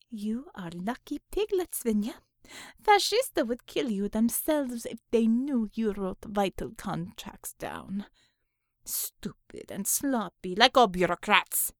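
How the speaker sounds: lightly voiced Russian-sounding interrogator; scornful verdict, slowing toward the end; tough interrogator, contemptuous. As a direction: scold him in broken English. Natalia scorns the captive.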